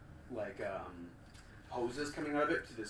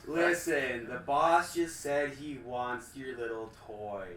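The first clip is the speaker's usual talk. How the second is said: booming villain woman; 5 dB louder, slower than usual. Acted. Villain voice calling to house.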